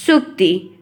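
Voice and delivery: सुक्ति begun with "sh", short u; a careful "shuk-ti" for सुक्ति; hissed sh sound. Shown as a demonstration. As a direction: say सुक्ति as "shukti". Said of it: "मैंने क्या उच्चारित किया".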